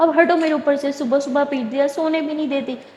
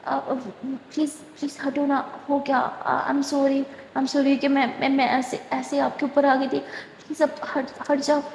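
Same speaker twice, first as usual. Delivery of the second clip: nervous pleading; 4 dB quieter than usual. Acted. Simran pinned under Durga, pleading in a nervous near whisper. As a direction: beg her to get off, barely voiced. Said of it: "گھبراہٹ سی ہونے لگتی ہے".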